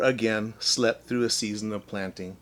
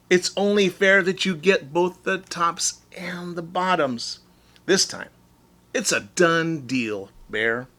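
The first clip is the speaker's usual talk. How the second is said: a touch higher, smooth and agreeable; sly Hare voice; 6 semitones higher than usual. Acted. Hare soothing Bear, lightly voiced. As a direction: Hare sweetly sealing the deal. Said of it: "sighed Hare".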